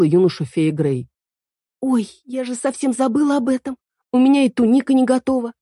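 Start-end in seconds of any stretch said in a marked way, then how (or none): 1.8-5.5 put-on high, fussing girlish alarm; flustered. A narrator's reading. Эль remembers the festival, high and flustered. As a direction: bustle about in a flap. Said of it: "засуетилась Эль".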